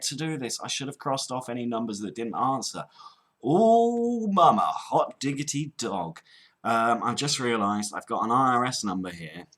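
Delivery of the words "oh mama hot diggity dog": gleeful exclamation. Real, not acted. Caller spots an IRS number on his list, gleeful. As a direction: crow over a lucky find.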